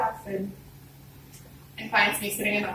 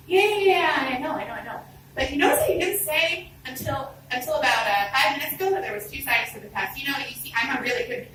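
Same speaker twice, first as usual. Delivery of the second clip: higher, fast excuses tumbling out; flustered pleading; 5 semitones higher than usual. Retold or imitated. Student begs her teacher for more time, flustered and pleading. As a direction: talk your way out of it in a panic.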